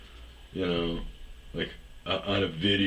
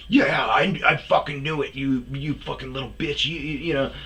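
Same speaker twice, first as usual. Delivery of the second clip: much higher, louder mocking gloat; mock gloating rant; 8 semitones higher, 4 dB louder than usual. Imitating the Boston guy's gloating follow-up message, much higher and louder. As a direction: crow it like a deranged troll. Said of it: "like, totally unhinged".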